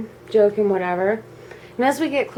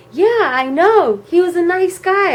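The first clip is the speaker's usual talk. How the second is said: lightly voiced pleased mother; breezy mom, imitated; 8 semitones higher, 4 dB louder than usual. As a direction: answer as an untroubled mom. Acts mom's untroubled cheerful reply.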